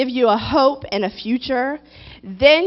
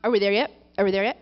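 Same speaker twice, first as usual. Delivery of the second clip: put-on three-year-old; 5 semitones lower, much faster than usual. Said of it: "regressing into the three-year-old mentality".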